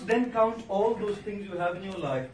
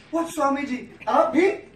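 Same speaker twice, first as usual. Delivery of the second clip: surprised; 6 semitones higher, 8 dB louder than usual. Retold or imitated. Man surprised seeing monk in Lamborghini.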